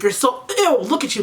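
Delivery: imitated sneering disgust; mock disgust. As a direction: recoil with a retold "ew". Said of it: "like, the disgusted face".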